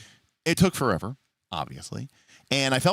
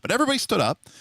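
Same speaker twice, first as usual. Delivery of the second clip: exasperated; 12 semitones higher, 4 dB louder, faster than usual. Real, not acted. Exasperated rant peak.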